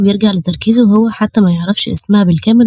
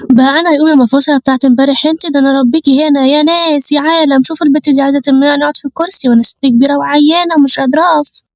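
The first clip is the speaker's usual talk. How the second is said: calling the whole carriage to witness, pitched up; hammed-up hajja's protest; bickering old woman; 5 semitones higher than usual. Old woman shouting in train quarrel.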